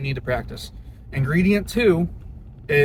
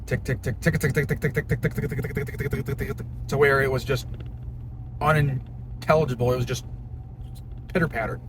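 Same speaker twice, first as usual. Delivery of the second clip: revving engine ticking. Retold or imitated. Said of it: "And it goes".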